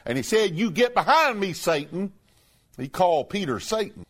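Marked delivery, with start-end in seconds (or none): 0.6-2.1 blunt rebuke. Retold or imitated. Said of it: "speaking very bluntly".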